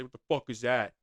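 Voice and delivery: gamer impression. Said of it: "they'd probably just say".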